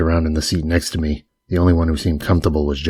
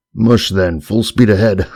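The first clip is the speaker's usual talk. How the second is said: excited whoop; 4 semitones higher, 5 dB louder, slower than usual. Acted. Josh cheering the escape on.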